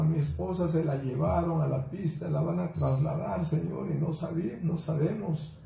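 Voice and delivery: mild tearful plea, voice lifted; retold tearful prayer. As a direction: imitate a desperate husband praying to God. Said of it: "y llorando dijo".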